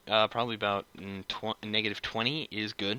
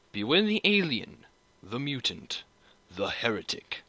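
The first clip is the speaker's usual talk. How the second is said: space marine voice; 2 semitones higher than usual. Shown as a demonstration. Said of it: "Those are just some of the phrases".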